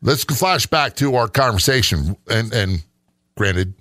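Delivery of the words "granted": sarcastic. Acted. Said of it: "And I'm being sarcastic".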